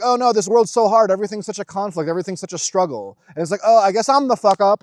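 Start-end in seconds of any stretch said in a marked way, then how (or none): 0.0-3.2 higher, louder mock whine, fast at the end; hammed-up self-pity; whiny complaint. 3.6-4.8 higher, louder sarcastic resignation; hammed-up defeat; mock self-pity.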